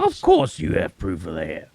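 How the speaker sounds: exaggerated Southern mockery; mocking Southern accent. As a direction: parrot his Southern accent back at him. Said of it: "Why would you mock my accent".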